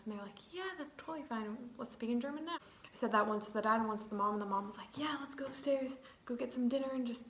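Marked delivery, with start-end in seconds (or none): 0.5-2.6 higher-pitched imitation of an agreeable parent; higher, breezy quoted reassurance; retold easygoing agreement. 5.0-7.2 lightly voiced mom, a little higher; higher-pitched, casual quoted invitation; retold agreeable host mom. Retold host mom's willing agreement.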